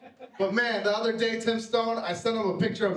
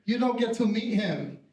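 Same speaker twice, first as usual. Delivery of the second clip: slow, emphatic mom voice; lightly voiced mom laying down the law; refusing mom; 2 semitones higher than usual. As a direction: draw out mom's indignant refusal. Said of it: "And she said".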